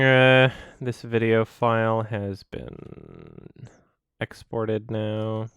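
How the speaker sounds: slow, soft whispered aside; real whisper while wrapping up the video. Real, not acted. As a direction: whisper it to yourself, slowly. Whispering after the rant.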